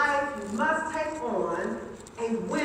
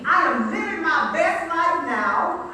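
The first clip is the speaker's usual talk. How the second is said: booming motivational speech; 3 semitones higher, 5 dB louder than usual. Acted. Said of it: "like you really know it".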